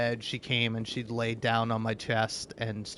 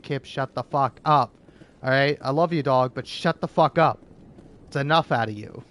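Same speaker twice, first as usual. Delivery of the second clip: louder scolding of the dog; mock yell at dog; 5 dB louder than usual. Scolding the dog Kip over the bunny, a mock yell. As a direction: tell the barking dog off, louder.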